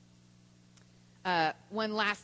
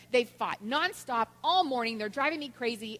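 mildly exasperated complaint, a bit louder; imitated frustration; 3 semitones higher, 3 dB louder than usual. Mother vents to neighbor about fighting children, mildly exasperated. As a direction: vent about the kids, acted. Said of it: "she was so frustrated".

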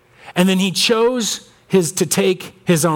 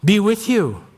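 tender blessing; 3 semitones higher, slower than usual. Acted. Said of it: "he emphasizes it twice".

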